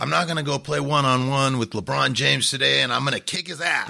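mock overconfident optimist. Mocks naive overconfident optimism.

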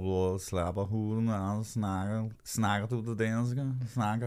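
mock Danish gibberish. Comedian showing how Danish sounds, mock Danish. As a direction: imitate garbled Danish pronunciation. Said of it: "some Danish pronunciation is a little".

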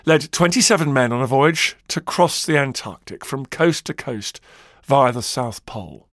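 dramatic storyteller with measured pauses; documentary narration. Acted. Podcast host recounts Shackleton's expedition, dramatic documentary narration. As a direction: build the story of the doomed voyage.

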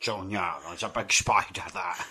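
bad Connery impression. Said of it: "the worst impression of all time".

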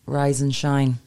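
reading bottle slogans in a sing-song patronising voice; mock the bottle's chirpy timestamps; reading out the water bottle's patronising slogans, mocking; mock condescending bottle. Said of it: "condescending fucking water bottles".

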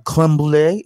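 mock French flourish on brulee; affected French accent. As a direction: say the dessert with French airs. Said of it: "the accent comes out".

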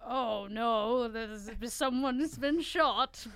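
slow Irish brogue; a playful put-on Irish voice; Irish accent. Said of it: "that was a very good Irish accent".

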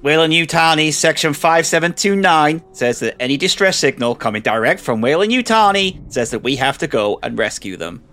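loud formal Scottish android; Scottish accent. Acted. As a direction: cite the rules in a Scottish accent. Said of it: "I only went Scottish then".

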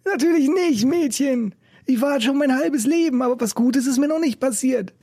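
put-on high, laughing old busker; dirty laughing call. A narrator's reading. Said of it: "brach er in sein dreckiges Gelächter aus und rief".

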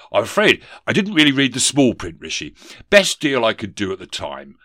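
loud, sheepish excuse; blustering ghost. Acted. Ghost admits to a poor deal, loudly offhand. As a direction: open loud, then shrug it off.

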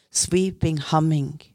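lightly voiced ancient spirit guide speaking through her; trembling old man's voice. Channelled guide Wounded Eagle speaking to the group, a mild trembling old voice. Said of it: "Dette sier jeg da med en gammel mannsstemme, skjelvende mannsstemme".

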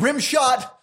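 high, loud burst; acted movie-quote yell; exclaimed correction. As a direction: blurt it as an urgent correction. Acts out exclaimed film correction.

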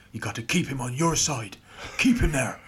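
lightly voiced Irish teammate; a hint of an urgent Irish growl in imitation; Wally. Teammate instructing the youngster leaving the huddle, imitated urgent Irish voice. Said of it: "that's what Wally sounds like".

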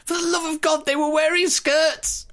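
high, loud outraged rant; furious king. Retold or imitated. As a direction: rage at your useless army. Furious Edward the First rant.

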